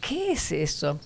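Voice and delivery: hushed frightened question. Retold or imitated. Small girl asks her sister in church, hushed and frightened. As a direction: ask it under your breath, a little scared. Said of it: "me dio miedo".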